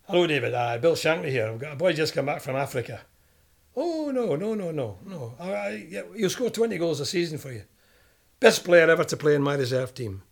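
lightly voiced Shankly selling a player, loud bursts; hard sell down the phone in the boss's voice. Shankly pushing the Tranmere manager to sign him, mock loud hard sell. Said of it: "Shankly starts on him".

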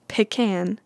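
"pecan" said pih-CAN, as in tin can; short first vowel in "pecan", then can; pronunciation pih-CAN. Shown as a demonstration. Vlogger listing options, pecan as pih-CAN. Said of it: "Do you say".

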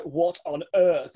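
slow, drawn-out disbelief; walking into a wedding, stunned. Retold or imitated. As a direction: stretch it out in shock. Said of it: "I was just like".

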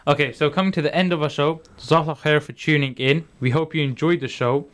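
glitchy, robotic digital voice; bitcrushed like a broken stream. Real, not acted. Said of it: "Why do you sound so robotic?".

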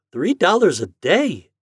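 mother marvelling at the price; amazed mother. Acted. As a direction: gasp out the sum in wonder.

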